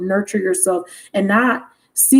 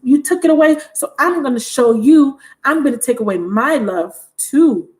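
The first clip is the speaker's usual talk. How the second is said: mock tantrum; 4 semitones higher than usual. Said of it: "they're having a tantrum".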